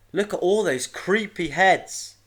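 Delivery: high, loud character voice; loud, high voice of Iris exclaiming; exclaiming child. A narrator's reading. Child exclaims at the stone heads.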